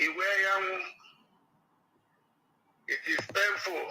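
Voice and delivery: caller heard over speakerphone; tinny voice through a phone speaker. Real, not acted. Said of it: "I'll put you on speaker".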